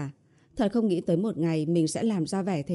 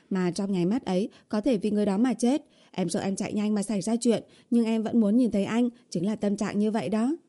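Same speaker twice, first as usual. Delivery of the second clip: lightly voiced girlfriend, a bit higher; earnest coaxing heroine; 3 semitones higher, faster than usual. Girlfriend admits her feelings to boyfriend, mildly earnest. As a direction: confess it sincerely, a touch pleading.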